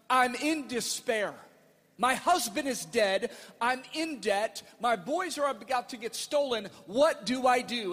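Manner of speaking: mild crying out. Retold or imitated. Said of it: "she cried out to the man of God".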